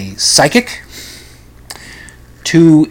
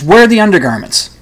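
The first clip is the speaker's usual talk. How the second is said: lightly voiced eccentric psychic, higher; a hint of the showy psychic catching them out; theatrical psychic, lightly played; mock Russian psychic; 7 semitones higher, 5 dB louder than usual. Psychic demands the underwear.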